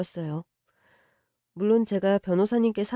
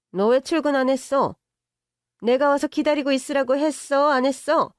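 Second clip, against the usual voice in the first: higher and louder, demanding; scolding rich mother; 5 semitones higher, 3 dB louder than usual. Acted. Mother demanding why she skipped work, scolding. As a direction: interrogate her like a boss.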